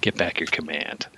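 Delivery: mildly gentle retold reassurance; gentler. Giving Kirk the friend's gentler message, mildly gentle. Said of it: "gives him the more gentler message".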